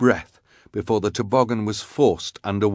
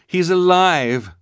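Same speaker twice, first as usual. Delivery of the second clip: urgent; 9 semitones higher, 6 dB louder, slower than usual. A narrator's reading. Klaus reassuring tearful sister.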